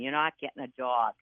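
put-on firm refusal in a mild Boston accent; hint of Boston in a mimicked mother. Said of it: "In her Boston accent".

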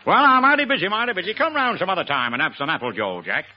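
mock-American slang patter; lightly hammed-up American accent; Bob Hope. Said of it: "my impersonation of Bob Hope talking English".

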